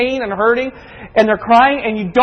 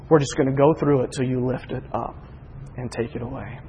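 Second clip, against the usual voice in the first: low, soft, halting prayer; hushed, resigned acceptance; surrendered prayer; 7 semitones lower, 7 dB quieter than usual. Retold or imitated. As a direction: yield to God quietly, pausing between phrases. Retold prayer of surrender to God.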